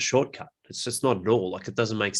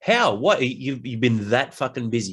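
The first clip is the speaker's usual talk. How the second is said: mock incredulous retort. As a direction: scoff at the excuse. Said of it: "you're like".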